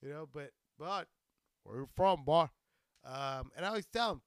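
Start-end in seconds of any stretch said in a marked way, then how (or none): 1.6-2.5 loud punch on the challenge; mock hostile questioner. Comedian contrasting it with a friendly greeting, loud mock challenge. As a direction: imitate someone singling out a stranger. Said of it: "When people say it like that".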